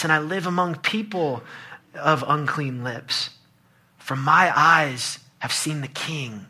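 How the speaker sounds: slow, solemn scripture recitation; Isaiah's lament. Acted. Preacher voicing Isaiah awed before God, slow and solemn. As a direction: weigh each phrase slowly, easing off at the end. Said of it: "Isaiah says this".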